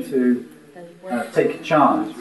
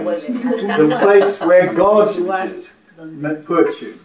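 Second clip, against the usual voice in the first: very slow, drawn-out and higher, words stretched apart; slow dramatic line; 4 semitones higher, much slower than usual. Shown as a demonstration. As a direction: stretch each word out for effect. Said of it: "Can I say it like that?".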